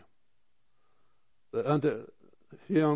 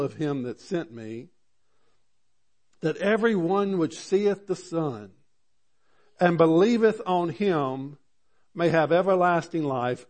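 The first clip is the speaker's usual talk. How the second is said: fervent sermon reading; preaching. Acted. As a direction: proclaim it from the pulpit.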